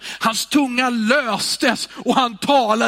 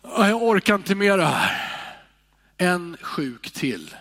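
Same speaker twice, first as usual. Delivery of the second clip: weary complaint. Shown as a demonstration. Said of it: "Det finns en skillnad på".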